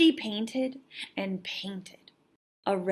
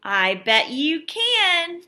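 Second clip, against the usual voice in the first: encouraging; 6 semitones higher, 4 dB louder, slower than usual. Acted. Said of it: "said Vashti".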